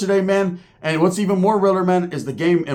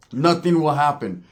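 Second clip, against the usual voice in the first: slow, measured restatement in usual pitch; slow emphasis. Real, not acted. Vlogger settling the rap feud question, slow emphasis. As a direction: spell it out slowly and firmly.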